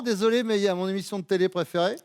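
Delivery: quick, offhand brush-off; indifferent. Acted. Host voicing an uninterested partner's text reply, indifferent. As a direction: rattle it off with mock indifference. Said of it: "Indifférent".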